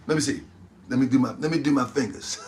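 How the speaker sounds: laughing. Real, not acted. Counting on fingers, laughing.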